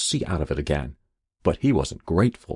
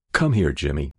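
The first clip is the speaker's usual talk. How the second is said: gentle mother; 5 semitones lower than usual. Acted. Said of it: "she said in a different voice".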